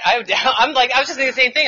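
laughing through the words. Real, not acted. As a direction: giggle while agreeing. Laughing mid-sentence.

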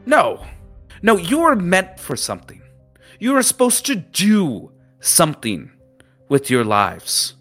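high-pitched lecturing captain voice; berating captain. Acted. Captain lecturing the students on wasted privilege, high-pitched and stern. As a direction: scold them like a disappointed old captain.

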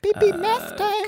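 robot voice. Pretend. Robot math voice.

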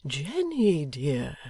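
put-on mildly soothing old man; a touch of gentle reproof. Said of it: "began the old man gently".

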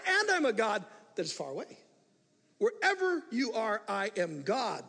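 God's voice pressing each how dare you, rising to loud; pointed rebuke. Acted. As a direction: confront the listener as the Lord. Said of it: "declaring rather pointedly".

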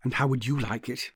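softly spoken, probing question. A narrator's reading. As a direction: ask it gently, under the voice. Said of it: "he said very softly".

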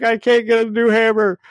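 high, hammed-up mock wail; mock crying Thor. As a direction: blubber like a big baby hero who lost his toy. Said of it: "And Thor starts crying".

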